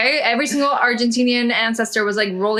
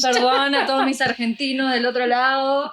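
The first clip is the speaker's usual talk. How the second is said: laughing; 3 semitones higher than usual. Real, not acted. Loser apologizes laughing.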